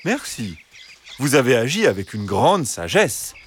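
composed, courteous fox; smooth, unruffled fox reply; calm. Acted. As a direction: thank them calmly, with measured emphasis. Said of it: "répondit calmement le renard".

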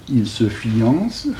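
"fiance" drawn out slowly; dialectal pronunciation. Shown as a demonstration. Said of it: "il prononce comme on prononce chez lui".

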